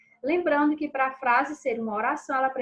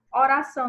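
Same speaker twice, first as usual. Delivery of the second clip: Oração said louder to show the stressed ção; stress on final syllable; 6 dB louder than usual. Shown as a demonstration. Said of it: "nós temos o são".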